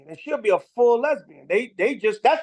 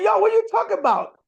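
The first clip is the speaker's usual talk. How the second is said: much higher and louder mock voice; hammed-up disbelief; retold self; 12 semitones higher, 5 dB louder than usual. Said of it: "I said".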